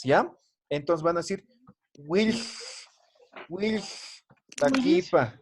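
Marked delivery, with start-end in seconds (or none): 2.0-5.3 slow, broken into syllables; split by syllables. Shown as a demonstration. Teacher showing students how to split the word. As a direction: break Wil- wiltakipa apart syllable by syllable. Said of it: "Lo van a separar por, por sílabas".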